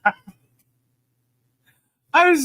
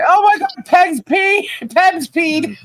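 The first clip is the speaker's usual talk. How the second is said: excited shriek; 6 semitones higher than usual. Retold or imitated. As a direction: squeal it out in half-laughing disbelief. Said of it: "I'm like".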